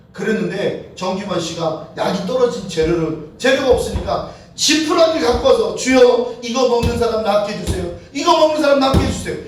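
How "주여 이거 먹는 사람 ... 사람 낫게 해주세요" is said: earnest plea. Retold or imitated. Acted prayer over makeshift medicine.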